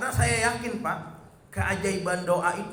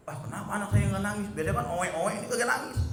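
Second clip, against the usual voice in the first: mock startled; 5 semitones higher than usual. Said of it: "saya kaget".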